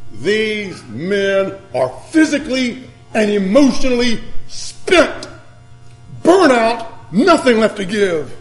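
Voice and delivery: emphatic preacher, stretched key words; dramatic sermon delivery; forceful preaching. Real, not acted. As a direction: hammer each phrase slowly with pauses. Preaches the disciples' exhaustion.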